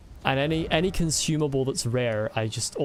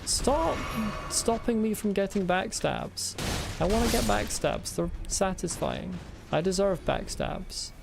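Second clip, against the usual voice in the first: put-on whiny child voice; 5 semitones higher than usual. Whiny demand for backstabs.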